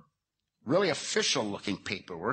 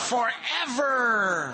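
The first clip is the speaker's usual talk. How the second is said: higher, slow, stretched out through a laugh; laughing dread; 11 semitones higher, 4 dB louder, much slower than usual. Real, not acted. Telling the crowd about waking in hell, laughing. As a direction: draw out forever as comic doom. Imagining being stuck in hell.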